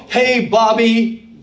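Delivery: slow drawn-out American "Hey, Bobby"; a slow, broad American greeting to a kid; American accent. Pretend. Preacher calling to a child in an American accent. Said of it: "boy, did I go for an American accent".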